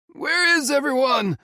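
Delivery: high, loud miserable call; fearful calling. Acted. Lost old man calls into the storm, fearful and loud. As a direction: call out full of fear and misery. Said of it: "the man called out".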